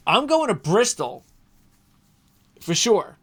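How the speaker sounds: high, loud burst of eagerness; pumped announcement; excited. Real, not acted. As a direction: blurt it out, thrilled to be going. Eager plan for Bristol trip.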